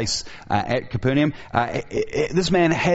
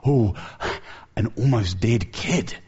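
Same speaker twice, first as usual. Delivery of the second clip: gawking crowd. Retold or imitated. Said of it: "the eyes of the crowd light up".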